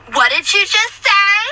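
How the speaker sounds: high, slow, drawn-out disbelief; appalled customer impression. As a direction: imitate a scandalized customer, stretching the words. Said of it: "these expressions are her expressions".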